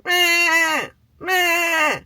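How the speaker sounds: high nasal-free goat "meh"; mock goat bleating. Imitating goats bleating.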